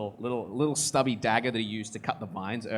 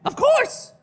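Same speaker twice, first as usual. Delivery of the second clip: squeaky, loud eager agreement; high character voice; 9 dB louder than usual. Acted. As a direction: chirp it out high.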